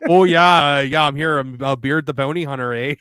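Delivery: lightly hammed-up Canadian; Canadian accent. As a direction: play Beard as a chatty Canadian. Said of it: "My Canadian accent".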